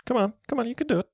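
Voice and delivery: high, eager urging; root for the card to land; excited cheering. Real, not acted.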